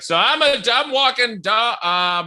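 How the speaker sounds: high, stumbling, flustered voice. Retold or imitated. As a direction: fumble the words in a high voice. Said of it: "You're like".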